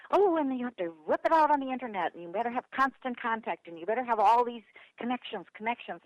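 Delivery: lightly mock the insistent know-it-alls; mock eager advice. Speakers at a chapter meeting discussing internet contacts, mock eager advice. Mimicking chattering meeting attendees.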